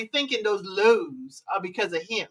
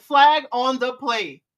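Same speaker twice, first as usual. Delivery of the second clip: slow, louder referee announcement; referee call; 4 dB louder, slower than usual. Retold or imitated. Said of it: "As K Sharp said".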